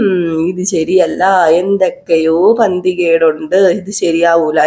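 slow, low mock mutter of suspicion; suspicious brooding. Sachi doubting the uncle's story, slow low brooding. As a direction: drag it out as if thinking something is off.

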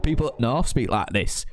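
demonstrated northern English accent. Shown as a demonstration. Showing viewers how people up north speak, northern English accent. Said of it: "I'm from up north".

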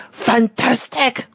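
high, drawn-out pelican squawk; thrilled bird voice; excited cry. A narrator's reading. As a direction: stretch it out in high-pitched delight. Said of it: "cried the pelican".

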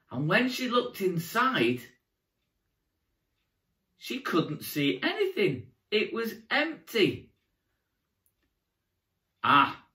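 put-on storytelling to young children; kids party magician. A narrator's reading. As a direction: tell it like a children's entertainer.

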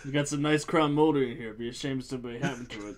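playful shakedown threat; mock intimidation. Pretending to threaten a house's crown molding, mock intimidation. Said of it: "He's intimidating that house".

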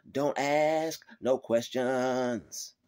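slow, drawn-out stern command; God's stern word. Retold or imitated. God telling complainers, slow and stern. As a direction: lay down the law, very slowly. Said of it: "God is telling them".

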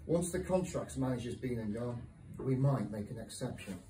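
deliberate, lively spoken-word delivery with pauses; poem reading. Acted. Decorator-poet reads contract colours poem to an audience, deliberate recital. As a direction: recite line by line, landing each dry detail.

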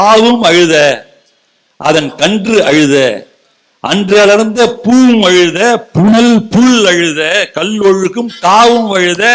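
slow, declaimed Tamil verse; measured poetic declamation, pausing between phrases; verse recitation. Acted. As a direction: recite each phrase with drawn-out vowels and weight. Recites the Kamba Ramayanam verse.

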